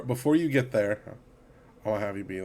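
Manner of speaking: ordinary talk, nothing marked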